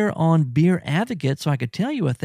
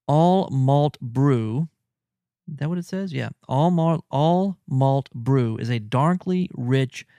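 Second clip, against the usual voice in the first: label read aloud. Shown as a demonstration. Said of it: "I'm reading here from the bottle".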